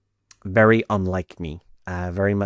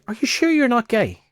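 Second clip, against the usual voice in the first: high-pitched mock incredulous question; sceptical questioning; 4 dB louder than usual. Date quizzing me about being gay, sceptical. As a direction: imitate a doubtful date, pitched right up.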